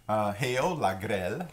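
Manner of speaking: la grêle, said clearly for learners to repeat; la grêle with a rolled French r, slow and clear; model pronunciation. Shown as a demonstration. Teacher modelling la grêle for students to repeat. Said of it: "Try that".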